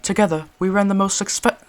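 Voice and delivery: proud British gentleman; boastful British reminiscing; British accent. Acted. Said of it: "British accent for this one".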